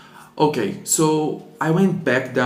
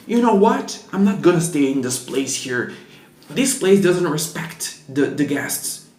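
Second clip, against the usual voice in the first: mock angry guest; 3 semitones higher than usual. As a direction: play the huffy guest storming off, half-joking. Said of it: "he was very angry".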